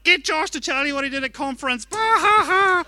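high, laughing tease; teasing laugh. Retold or imitated. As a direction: imitate Liz cackling with glee. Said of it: "Liz was like".

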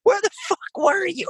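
very high mocking squeak of his friends; mock buddies. Parody his friends in a squeaky voice. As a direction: friends arriving and demanding where he was, very high mock squeak. Friends quoted demanding answers.

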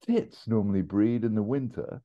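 lightly voiced don musing to his students; mild, slow lecturer voice; Stephen Fry impression. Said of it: "I haven't done a very good impression of him".

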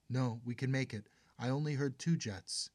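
high, loud desperate pleading. Acted. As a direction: beg her, clinging to hope. Daughter pleads with her mother.

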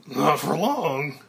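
smiling threat. Acted.

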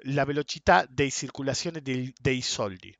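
slow Italian quote with a Spanish-speaker's touch; Italian taxi driver. Retold or imitated. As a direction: imitate an Italian cabbie, slowly. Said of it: "estaba en un taxi en Italia".

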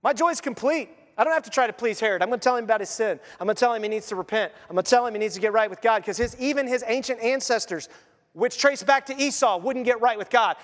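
John eager to confront Herod, voiced high and fast; bold joyful John. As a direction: rattle it off like a prophet who can't wait. John voiced preaching boldly.

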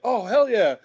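high-pitched fan enthusiasm; excited quoted reaction; retold delight. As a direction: imitate a thrilled fan, pitch swooping up.

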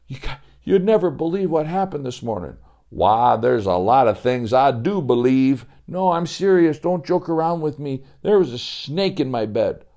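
put-on a kid bursting with news; excited boy. Joey excited.

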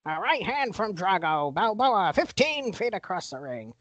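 mock boxing announcer call; booming announcer. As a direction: call the punch like ringside commentary. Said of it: "It's my boxing announcer voice".

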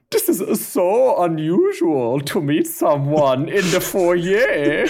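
light German accent, lightly put on; a hint of a German accent, courteous. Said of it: "take it kind of in a Flula Borg direction".

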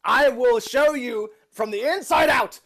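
grandpa threat. Acted. In-character threat to villain.

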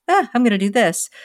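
a hint of a kid announcing a plan. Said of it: "in the kid voice".

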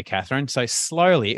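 ordinary talk, nothing marked

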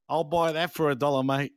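mock Australian accent, lightly done. Co-host asked to redo the catchphrase in an Australian accent. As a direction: say it like a hammed-up Aussie bloke. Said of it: "do it in a full Aussie accent".

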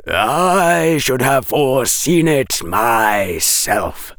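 a dry professor correcting the rescuer; Quirrell lecturing. Acted. Quirrell voice again.

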